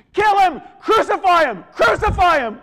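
high, full-force mob chant; bloodthirsty shouting. Acted. Media setting you up to hate the villain, shouting. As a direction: yell like a crowd baying for execution.

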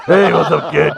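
raspy bootleg bear voice; smoker's rasp. Retold or imitated. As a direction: growl it like a chain smoker. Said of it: "He had a smoker's voice".

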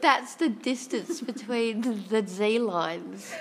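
lisping, drawn-out hissing s; snake with a lisp. Real, not acted. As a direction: stretch every s like a hissing snake. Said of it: "I sound like a snake with a lisp".

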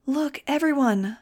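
slow, high, loud call to a crowd; shouted announcement. A narrator's reading. Girl calling the crowd's attention into a microphone, shouting. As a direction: shout it out to everyone. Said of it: "she shouted into the microphone".

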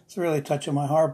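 apologetic, moved, laughing a little; touched, with a real self-conscious laugh; emotional laugh. Real, not acted. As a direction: laugh at yourself for getting emotional. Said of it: "I'm sorry I'm so emotional".

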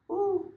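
high blown-out "woo" of a deep breath; loud deep-breath exhale. Shown as a demonstration. Teacher shows his calming breath, loud exhale. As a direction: blow the stress out in a high whoosh. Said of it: "take a deep breath".

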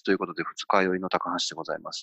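rough, sluggish hungover voice. Real, not acted. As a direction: talk like the morning after drinking. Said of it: "声が違いますもんね". (二日酔いの声)

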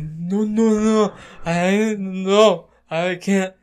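high, drawn-out retold refusal; mock panic. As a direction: wail it in comic dread.

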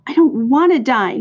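high, loud wailing protest; acted squeal rising on the plea; scream. A narrator's reading. Pig throws himself down before the old sheep, screamed. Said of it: "screamed Wilbur".

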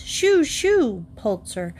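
mild shout. Acted. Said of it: "she shouted".

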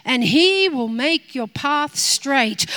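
high, loud, near tears, quoting scripture at God; praying woman hurls scripture at God, loud and tearful; impassioned quoting. Retold or imitated. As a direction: fling the verse back at heaven. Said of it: "we love to quote scripture back to God".

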